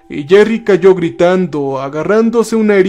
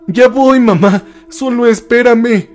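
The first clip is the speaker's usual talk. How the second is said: mild shout, pitched up; shouted reply; 6 semitones higher than usual. A narrator's reading. Son runs to his trapped mother, mildly shouted call. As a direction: call ahead in a raised, eager pitch. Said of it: "gritó".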